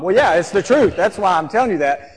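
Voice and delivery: emphatic retort. Retold or imitated. Mom justifying her scary answer, loud emphatic retort. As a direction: fire back loudly, as if it's obvious. Answering the outraged protest back.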